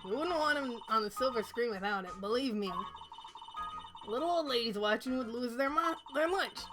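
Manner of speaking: put-on old lady with light New York accent. Old guard gossips about Will Powers, New York accent. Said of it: "stuck in New York accent".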